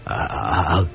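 husband calling after wife in fear; fearful stammer. Acted. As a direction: call after her haltingly. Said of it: "Ông Phú nói vối theo".

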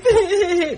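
a high crying wail; mock sob. Wife mimicking the girl's last sob, mock sob. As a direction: let out a faked sob. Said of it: "nó khóc vậy đó".

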